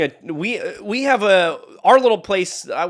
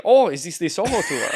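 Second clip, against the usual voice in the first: German tourist's question, playfully imitated; German accent. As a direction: put on a light, joking German accent. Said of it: "Do it in a German accent".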